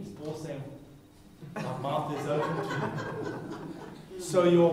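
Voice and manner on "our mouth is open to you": amused quote. Pretend.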